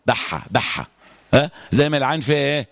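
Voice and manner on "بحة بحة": "بحة" low, with air rasping on haa; airy throat friction in "بحة"; husky haa. Shown as a demonstration. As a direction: let the breath run out on the haa of "بحة". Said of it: "الحاء دي فيها بحة".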